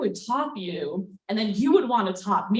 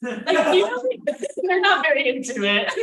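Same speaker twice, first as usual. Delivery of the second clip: laughing demo; 4 semitones higher, 4 dB louder than usual. Retold or imitated. Illustrating an unenthused kiss.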